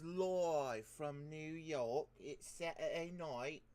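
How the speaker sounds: slow, loud, high announcer call; SNL announcer. Pretend. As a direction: boom it out like a TV show opener. Mock SNL announcer opening.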